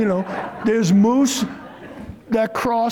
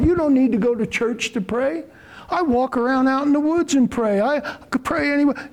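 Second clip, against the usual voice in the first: quoting the governor; 5 semitones higher than usual. Retold or imitated. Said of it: "This is what this man said on national T V".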